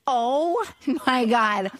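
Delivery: slow, drawn-out oh my God; mock horror, slowly drawn out; retold dawning horror. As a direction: replay the horrified realization, stretched out. Retelling moment of horrified realization.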